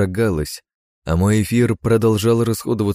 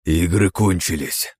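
icy hiss; 3 semitones lower, slower than usual. Acted. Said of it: "прошипел я ледяным тоном".

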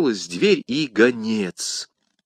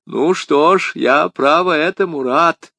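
high, emphatic gladness; exclaiming; 6 semitones higher, 5 dB louder than usual. A narrator's reading. Bonacieux welcomes meeting D'Artagnan, glad exclamation. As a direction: exclaim it with relief, pitched up. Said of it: "воскликнул господин Бонасье".

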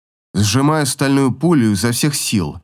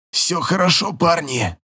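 wheezing; 5 semitones higher than usual. A narrator's reading. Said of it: "хрипит Романа".

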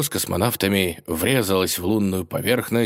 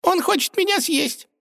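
much higher, tiny mouse voice; squeaky complaint. A narrator's reading. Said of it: "пожаловалась Наина".

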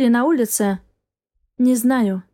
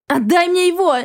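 put-on mother screaming for her child; shouted plea; 7 semitones higher than usual. A narrator's reading. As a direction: scream it at him, desperate. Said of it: "закричала я".

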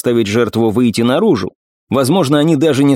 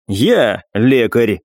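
grim smile; much slower than usual. Acted. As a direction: let a dark smile into the words. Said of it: "мрачно улыбнулась Ирис".

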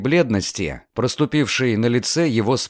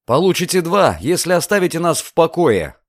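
snorting dismissal; 5 semitones higher than usual. Acted. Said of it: "фыркнул Люциан".

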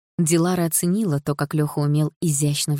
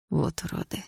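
much softer, whispered disgust; quiet whisper; 7 dB quieter than usual. A narrator's reading. Лёха mutters in disgust, whispered. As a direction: breathe out the contempt. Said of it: "тихо сказал Лёха".

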